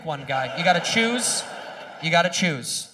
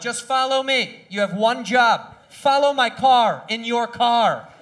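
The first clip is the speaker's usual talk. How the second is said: slow, spelled-out instructions; slow patronizing; 3 semitones higher, 4 dB louder, slower than usual. Retold or imitated. Comedian slowly instructing friend Nick how to follow. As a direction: explain it slowly like to a child. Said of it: "every time I'm like".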